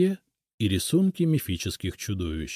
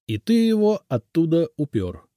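cheerful; 9 semitones higher, 5 dB louder than usual. A narrator's reading. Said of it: "весело улыбнулся я".

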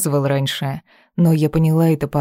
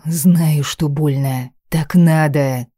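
a raised, forceful yell; shouting; 3 dB louder, slower than usual. Acted. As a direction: shout it at her to shut her up. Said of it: "заорал".

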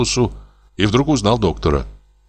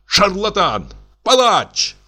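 furious insults; 13 semitones higher, slower than usual. A narrator's reading. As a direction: hurl each word like a spit. Madman hurling insults. (яростно, с ненавистью)

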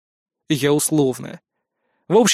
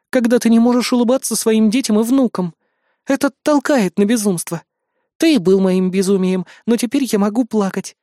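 a lightly higher, earnest queen; queen Lara; 5 semitones higher than usual. Acted. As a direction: pour out her relief, raised pitch. Lara's heartfelt speech. (искренне, голосом королевы повыше)

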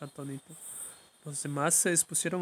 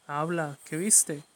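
louder indignant demand; outraged mother louder, shouting at her silent daughter; 5 dB louder, much slower than usual. Acted. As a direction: snap at her daughter to speak. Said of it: "gritó indignada la madre".

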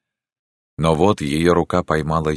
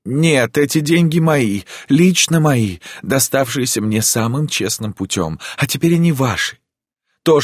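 cry out; 6 semitones higher than usual. Acted. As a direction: insist the money is hers. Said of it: "крикнула она".

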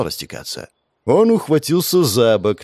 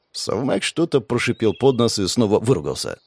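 ordinary delivery

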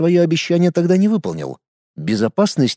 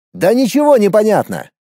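higher, exclaimed protest; pitched-up indignant outburst; sudden indignation; 8 semitones higher than usual. A narrator's reading. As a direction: burst out in disbelief. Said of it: "Резко переключился он на возмущение".

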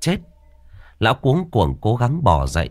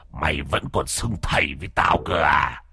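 low sneer; 4 semitones lower, 5 dB quieter than usual. Acted. Ghost sneers at master.

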